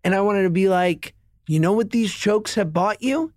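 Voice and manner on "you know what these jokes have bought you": mock indignant. Dad retorts to son.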